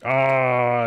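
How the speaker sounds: loud, drawn-out "oh" of disgust; disgusted groan. Acted. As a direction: groan loudly at a foul smell. Disgust at smell from the vent.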